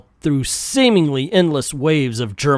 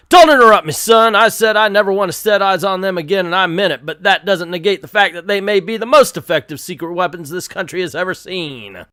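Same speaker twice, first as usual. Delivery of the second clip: angry general; 5 semitones higher, faster than usual. Acted. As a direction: cut him off like an irate general. General cuts the lieutenant off.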